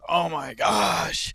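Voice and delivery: exasperated groan. Real, not acted. Frustrated after loss.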